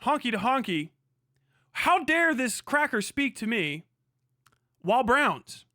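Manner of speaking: mock indignation. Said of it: "and I thought".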